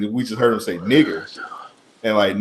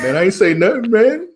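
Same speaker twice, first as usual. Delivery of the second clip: put-on high, loud Mexican accent; 10 semitones higher, 4 dB louder than usual. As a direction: squeak it out, pleading, Mexican accent. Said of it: "That's exactly how he sounded".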